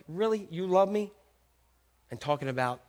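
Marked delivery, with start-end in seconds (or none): 0.1-1.1 softly questioning, pitch lifted at the end; gentle, probing disbelief; searching doubt. Acted. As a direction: ask it as if giving a searching look. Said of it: "Jesus probably gave him that look".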